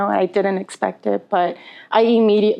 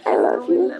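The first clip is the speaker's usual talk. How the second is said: whispered; 14 semitones lower than usual. Real, not acted. Tearful sister toast, whispered.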